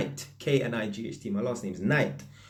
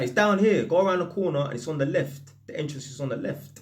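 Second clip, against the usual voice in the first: calling down; 5 semitones higher than usual. Retold or imitated. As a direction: call the directions down, fading at the end. Man at window calling back directions.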